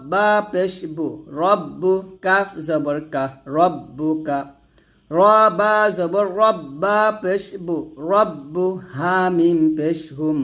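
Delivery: patient Quran teacher chanting letters and vowels aloud; recitation drill. Shown as a demonstration. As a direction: chant each syllable clearly so the class can follow. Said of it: "তো আমার সাথে আপনারা পড়েন".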